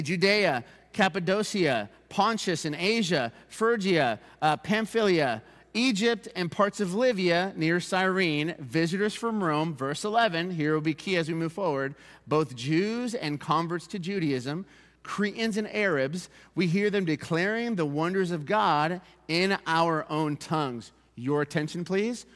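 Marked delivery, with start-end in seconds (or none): 0.0-9.8 slow roll call of nations; scripture list reading. Acted. Pastor reads places to congregation, slow and deliberate. 12.3-20.9 slow, measured Bible reading; scripture reading. Acted. Pastor reads scripture to congregation, slow and measured.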